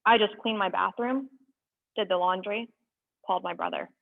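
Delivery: measured, deliberate spoken-word delivery; poem reading. Acted. Reading a found poem to viewers, measured spoken word. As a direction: let each line land with pauses.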